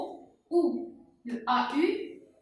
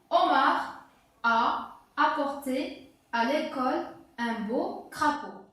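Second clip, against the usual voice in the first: dictée lue. Shown as a demonstration. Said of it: "je vais la lire maintenant".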